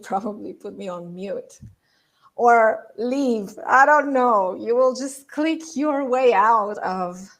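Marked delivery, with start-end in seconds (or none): 2.4-7.3 squeaky head voice. Shown as a demonstration. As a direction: keep the tight squeak going. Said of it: "on this voice".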